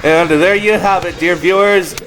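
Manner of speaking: grand, drawn-out host announcer read; game show host. Acted. Host introducing contestants to viewers, announcer voice.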